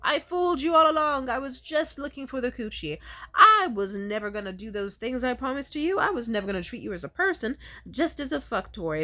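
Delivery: high, loud gloating villain; hammy villain reveal, gloating; evil villain. Retold or imitated. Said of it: "have a fucking evil villain change".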